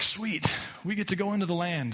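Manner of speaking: eager little cheer, lightly acted; gleeful Moses. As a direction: playfully act thrilled at good news. Moses acted as excited, then refused.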